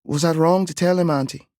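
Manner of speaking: put-on a small boy seeking reassurance; worried little boy. A narrator's reading. Boy asks.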